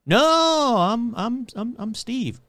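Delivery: high, loud "no", then stammering; flustered denial. Pretend. Henry denying his identity to a townsperson, flustered and stammering. Acted fugitive denying who he is.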